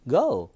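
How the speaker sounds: "go" stretched slowly into go-u; overdone glide. Shown as a demonstration. Teacher shows how no American would speak, overdrawn "go". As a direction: drag out the bend in "go". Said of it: "이렇게 말해".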